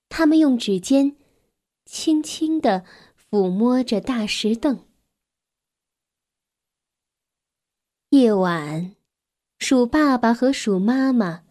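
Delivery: gentle, measured storytelling with long pauses; children's story narration. A narrator's reading. Narrator tells a child about a grieving mouse family, measured storytelling.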